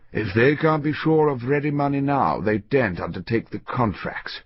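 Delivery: a lightly voiced old banker, measured and grave; Crosby explaining the plot. Old Crosby tells his partner about the plot, grave and measured. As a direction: read it as the senior partner, steady and knowing.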